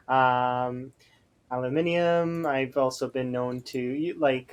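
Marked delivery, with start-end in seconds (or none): 1.5-2.5 "aluminium" in the British way, with an extra i before the final um. Shown as a demonstration. Streamer lists British-family words for chat, British pronunciation. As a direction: say "aluminium" as al-u-MIN-i-um. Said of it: "sometimes I'll say".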